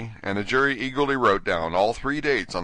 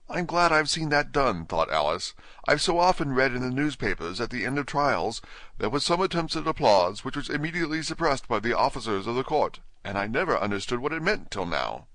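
Alice voice; 5 semitones higher than usual. Acted. Alice thinks.

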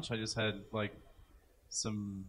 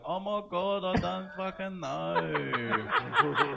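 mock accent; 5 semitones higher, much slower than usual. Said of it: "But I could be like".

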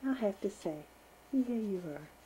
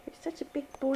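whisper; 5 semitones higher, 6 dB quieter than usual. Real, not acted. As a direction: whisper it tenderly close up. Whispering to baby.

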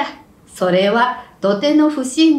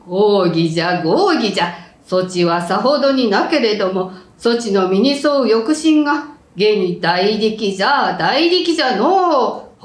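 put-on creaky wise old man; 3 semitones lower than usual. Samurai praising him.

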